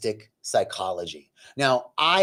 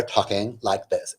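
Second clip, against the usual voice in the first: lower, affected skit voice; mock neighbor talk; 5 semitones lower than usual. Man shows how the neighbors talked, affected. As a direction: imitate the neighbors' affected chatter. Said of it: "like a Saturday Night Live skit".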